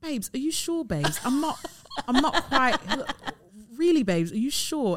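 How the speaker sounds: put-on British accent. Retelling her partner questioning a risky bet, imitating her partner's uk accent. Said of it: "with his accent".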